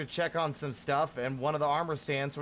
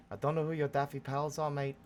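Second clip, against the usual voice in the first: put-on quick, half-hearted Scottish accent on "I don't know"; bad Scottish accent; faster than usual. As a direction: toss it off in a deliberately terrible Scottish accent. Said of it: "that was a terrible Scottish accent".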